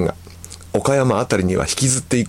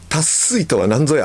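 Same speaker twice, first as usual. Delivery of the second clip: higher-pitched playful demand; mock interrogation; 6 semitones higher than usual. Wife questioning husband about dialect word, mock demanding. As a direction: demand an explanation, hammed up. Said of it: "と問いただしたところ".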